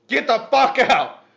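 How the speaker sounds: retold panicked scream at wife. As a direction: yell her out of the room. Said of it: "I'm screaming at her".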